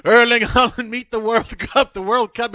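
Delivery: high-pitched mock British commentator; British soccer pundit. Host mimicking British soccer guys, mock British pundit. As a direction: imitate a British soccer announcer, relishing the names. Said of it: "the British soccer guys are the best".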